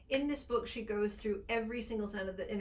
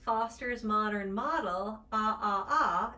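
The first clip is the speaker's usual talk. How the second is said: "Foster's modern model" with open American ah, slow; 7 dB louder than usual. Shown as a demonstration. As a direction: open jaw on each ah. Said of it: "in standard American".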